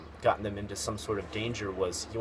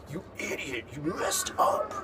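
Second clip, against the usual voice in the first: mock accusation, pitch jumping higher; harsh blaming; 6 semitones higher than usual. Vlogger showing how blaming others sounds too strong, harsh mock accusation. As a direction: throw the blame at them bluntly. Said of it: "if you use it for the other person".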